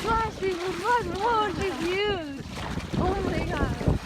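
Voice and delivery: very high, soft cooing. Real, not acted. Greeting the baby whale.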